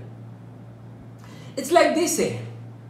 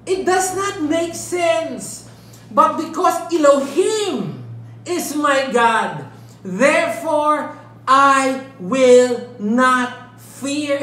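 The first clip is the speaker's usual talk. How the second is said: bold declaration; slower than usual. Retold or imitated. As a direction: proclaim defiantly in the face of the army. Psalmist's bold declaration retold.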